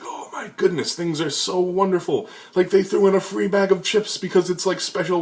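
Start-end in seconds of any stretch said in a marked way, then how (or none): 0.0-3.8 much higher, overjoyed gush; gushing delight. Retold or imitated. Thrilled by free chips, gushing high. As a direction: gasp it out like a kid at a party.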